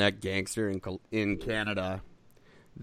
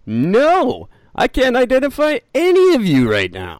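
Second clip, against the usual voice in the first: high, loud squeaky voice; 12 semitones higher, 11 dB louder than usual. Pretend. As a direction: answer in a silly high voice. Squeaky mock reply.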